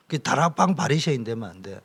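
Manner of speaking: ordinary talk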